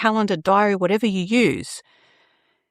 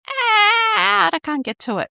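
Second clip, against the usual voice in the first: mock panic; 13 semitones higher than usual. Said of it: "and you're like".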